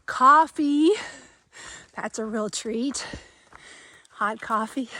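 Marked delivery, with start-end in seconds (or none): 0.0-0.9 excited. Real, not acted. Listing treats, coffee a highlight.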